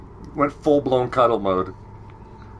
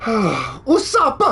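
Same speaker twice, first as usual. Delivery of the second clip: laugh-crying name; 7 semitones higher than usual. Real, not acted. Overwhelmed by laughter.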